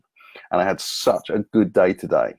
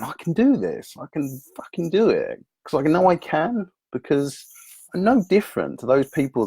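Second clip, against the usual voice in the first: self pep talk shout; 6 semitones higher than usual. Retold or imitated. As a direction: fire yourself up with a higher, driven voice. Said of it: "found myself shouting at myself".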